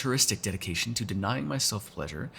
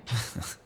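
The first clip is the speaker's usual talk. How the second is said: small, quiet chuckle; half-second huff of laughter; short laugh; 5 dB quieter than usual. Acted. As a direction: give a brief, soft laugh. Laughs at companion's reply.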